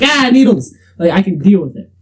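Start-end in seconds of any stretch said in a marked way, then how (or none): 0.0-0.8 mock fright. Shown as a demonstration. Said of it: "but it's not like".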